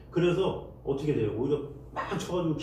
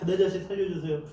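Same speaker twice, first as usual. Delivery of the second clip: put-on higher, tearful-sounding plea for a child; pleading parent; 3 semitones higher than usual. Preacher voicing a parent begging God, mock tearful. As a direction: beg for your child's life.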